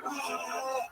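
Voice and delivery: put-on soft, high baby whine; high little mock wail; imitated baby crying. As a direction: mimic a baby left to cry it out. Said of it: "let her cry it out".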